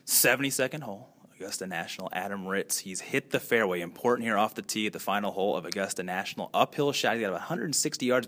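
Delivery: hushed golf call building to a shout; golf commentator. Pretend. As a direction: call the final putt, then erupt. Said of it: "could I request a, a call from you?".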